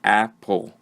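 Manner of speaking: "apple" in two distinct beats, ap, ple; syllable by syllable. Shown as a demonstration. Teacher showing the second word has two syllables, syllable by syllable. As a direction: sound out both syllables of "apple". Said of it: "this is also two syllables".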